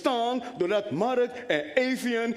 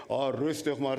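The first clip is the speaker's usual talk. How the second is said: calm doctor; 8 semitones lower than usual. Retold or imitated. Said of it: "zegt de arts".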